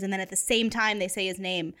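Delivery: normal talking voice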